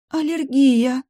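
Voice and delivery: high, loud frightened cry; frightened gasp. Acted. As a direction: gasp it out in alarm. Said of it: "испуганно ахнула вампиресса".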